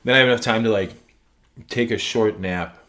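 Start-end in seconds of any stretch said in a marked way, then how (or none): 1.7-2.8 talking with a pretzel in mouth; words round a bite of pretzel; mouth full. Real, not acted. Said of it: "I have a pretzel in my mouth".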